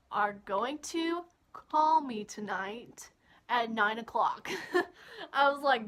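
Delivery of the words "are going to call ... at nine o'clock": slow, emphatic retold ultimatum, each word weighted; firm demand. Telling a boy he must call tonight, firm demand. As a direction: lay it down slowly, word by word.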